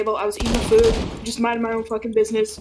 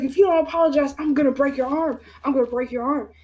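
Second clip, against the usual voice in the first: mock threat; 4 semitones higher, faster than usual. Eleven-year-old threatening the girl in arm lock. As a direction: lean in with a threat. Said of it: "And I was like".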